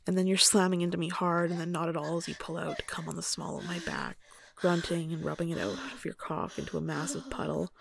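story narration. A narrator's reading. Reads erotic story aloud.

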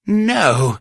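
high, loud anguished roar. Acted. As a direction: bellow it out in despair. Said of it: "Spark roared in her mind".

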